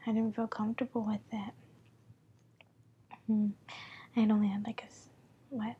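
breathy whisper, close to the mic. Real, not acted. Holds whisper throughout.

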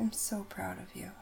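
the same praise again at an easy pace; quick echoed praise. Acted. Caretaker repeating praise to her partner, lighter. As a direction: repeat it lightly, as an affectionate echo.

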